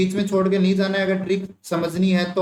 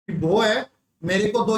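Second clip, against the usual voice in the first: put-on lisping child. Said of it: "तोतली आवाज में बोल रहा है".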